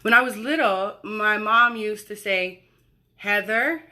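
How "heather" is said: lightly voiced mother calling her child; put-on mom voice. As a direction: imitate a mom, slightly exaggerated. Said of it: "why I gave my mom that voice".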